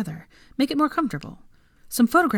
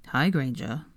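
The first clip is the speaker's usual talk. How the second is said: apprehensive; 5 semitones lower, slower than usual. Acted. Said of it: "said Draco apprehensively".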